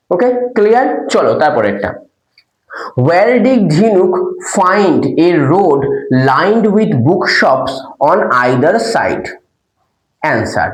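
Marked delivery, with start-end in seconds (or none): 3.1-9.3 very slow question read; careful dictation; slow reading aloud. Shown as a demonstration. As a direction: read each word slowly for the class.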